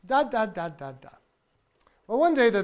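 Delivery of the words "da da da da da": voiced da babble. Shown as a demonstration. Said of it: "Uh, voiced".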